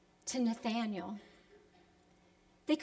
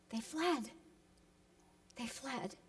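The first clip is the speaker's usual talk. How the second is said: fading repetition; 3 semitones lower, 14 dB quieter than usual. Acted. Repeated phrase fading.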